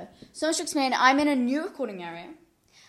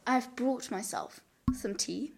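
whisper; 6 dB quieter, slower than usual. Real, not acted. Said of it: "Oh, sorry".

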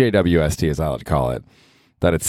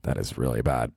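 low, much softer pained mutter; quiet hurt groan; 7 semitones lower, 9 dB quieter than usual. Retold or imitated. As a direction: wince like you got kicked in the teeth.

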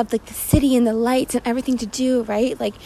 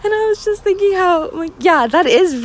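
high laugh breaking into the words; real laughter at how dark it was, pitched up; laughing through the start of the sentence, higher; 9 semitones higher than usual. Real, not acted.

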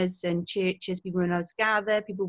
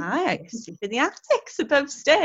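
lightly voiced old-English servant, a bit higher; in-character dairymaid; 5 semitones higher than usual. Dairymaid answering kids in the house, in character. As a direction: stay in role as a period maid.

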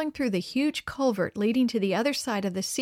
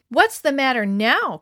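sarcastic; 3 semitones higher, 7 dB louder than usual. A narrator's reading. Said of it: "questioned Harold sarcastically".

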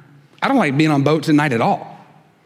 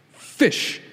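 whispered correction; 4 dB quieter than usual. Real, not acted. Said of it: "Plural of fish is fish".

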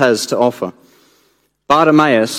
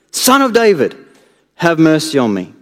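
one more desperate call; crying out; 2 semitones higher than usual. Acted. Beggar pleading to Jesus once more, crying out. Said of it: "cry even louder".

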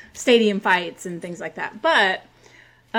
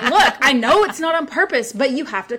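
louder, higher insistent protest; retold rising irritation; 5 semitones higher, 5 dB louder than usual. Woman retelling her protest to the man, getting mad. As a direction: re-enact losing patience, pressing the point. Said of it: "I was getting mad at this point".

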